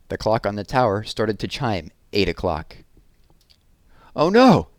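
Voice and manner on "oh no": a much higher, louder panicked cry; shout. Acted. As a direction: yelp in dismay as the clock chimes. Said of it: "Berlioz shouted".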